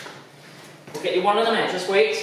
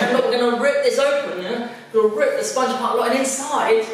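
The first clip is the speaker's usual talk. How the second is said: put-on kids party magician; 4 semitones higher than usual. Kids show magician patter.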